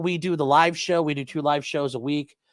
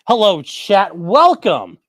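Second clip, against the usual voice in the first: cheerful greeting; 4 semitones higher, 8 dB louder, slower than usual. Real, not acted. Streamer greets chat loudly.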